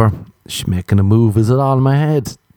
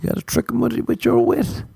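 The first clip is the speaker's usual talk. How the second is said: mock sly whisper; 13 semitones higher, 5 dB quieter than usual. High soft repeat.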